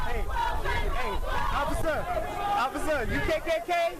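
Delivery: confrontational shout. Real, not acted. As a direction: shout it at the officer. Confronting officer.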